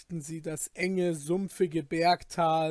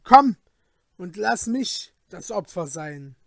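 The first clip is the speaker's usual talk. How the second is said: raised, despairing insistence; Falke, desperate; 3 semitones higher, 4 dB louder than usual. Acted. Falke refuses to leave without the sacrifice, desperate. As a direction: dig in, desperate and forceful. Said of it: "mit verzweifeltem Tone".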